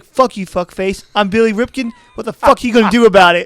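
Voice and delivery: rising into a loud, high challenge; mock upset boast. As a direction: act out a ballplayer cursing someone off. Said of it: "when he gets upset with somebody".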